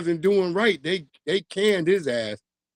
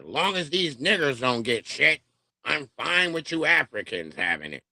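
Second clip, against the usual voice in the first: mock voice; 3 semitones lower than usual. Mock white people giving away.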